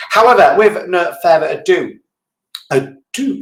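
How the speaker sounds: ado dwelt on, unsure whether it's a do or a Jew; unsure pronunciation. Shown as a demonstration. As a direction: test the sound of ado. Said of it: "is it a do or a Jew".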